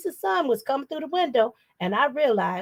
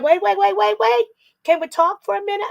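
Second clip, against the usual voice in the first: put-on pleading child; 8 semitones higher, 3 dB louder than usual. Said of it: "And I said".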